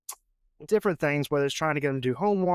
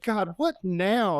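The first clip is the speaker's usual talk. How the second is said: son's inner grumble; 3 semitones higher, much slower than usual. Retold or imitated. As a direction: act out a kid's silent "not again". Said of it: "in his head, he's like".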